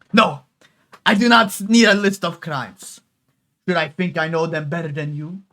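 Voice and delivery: lightly put-on Italian accent, Inigo Montoya style. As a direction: play her with a hammed-up Italian lilt. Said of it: "Italian, like, I don't know, fucking Inigo Montoya voice".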